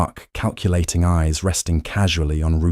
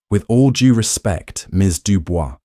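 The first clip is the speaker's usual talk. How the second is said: put-on grumbling Brooklyn mobster accent; lightly voiced condescending Brooklyn capo; patronizing Brooklyn accent. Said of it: "Russo grumbled, his Brooklyn accent thick and patronizing".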